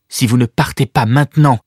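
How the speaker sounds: determined. Acted. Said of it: "d'une voix décidée".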